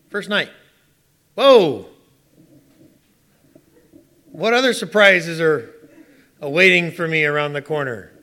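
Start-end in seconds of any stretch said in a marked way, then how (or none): 1.3-1.9 loud startled whoa; shocked. Retold or imitated. Shock at wife snoring. 4.3-8.1 laughing. Real, not acted. Amused wonder, laughing.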